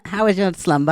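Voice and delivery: a mangled posh-British "How was your slumber?"; British accent. Retold or imitated. Retelling the Airbnb host's question in a bad British accent. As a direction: ham up a British host, badly. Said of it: "I'm gonna butcher it so bad".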